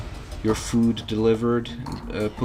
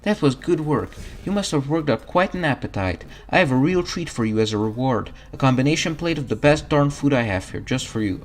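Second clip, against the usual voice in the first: higher, cheerful mom voice; motherly diner cook; 5 semitones higher than usual. Acted. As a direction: dote on the hungry customer. Voicing Mom NPC.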